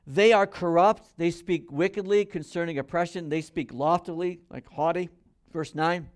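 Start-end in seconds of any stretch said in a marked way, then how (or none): 0.0-4.4 loud, emphatic Bible reading; scripture reading. Acted. Preacher reads scripture to congregation, loud scripture reading. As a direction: read the verse out with force.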